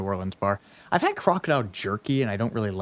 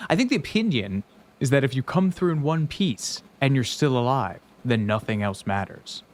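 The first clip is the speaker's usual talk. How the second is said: put-on Australian accent; 2 semitones higher than usual. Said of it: "I can only sustain it".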